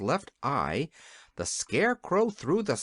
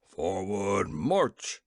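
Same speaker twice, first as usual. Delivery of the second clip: majors shouting; 7 semitones lower, much slower than usual. A narrator's reading. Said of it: "shouted the majors".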